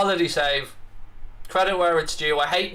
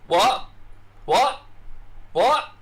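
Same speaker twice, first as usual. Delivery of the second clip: wrestler's catchphrase, each one pitched up; Stone Cold Steve Austin; 7 semitones higher, much slower than usual. Retold or imitated. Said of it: "Stone Cold Steve Austin coming in".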